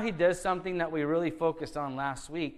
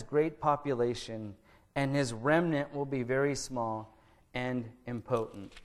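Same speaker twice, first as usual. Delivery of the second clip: scripture reading. Acted. Pastor reads Isaiah's prophecy to the congregation, solemn and measured. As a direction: read the verses out with weight to the congregation.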